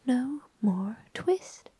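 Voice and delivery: mock tiny mice shouting in whisper; twittering mouse shout. Mice shouting at Simpkin through the window, slow whispered chant. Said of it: "shout at once in little twittering voices".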